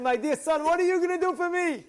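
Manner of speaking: put-on an old father asking his youngest; tender old father. Father asks youngest son.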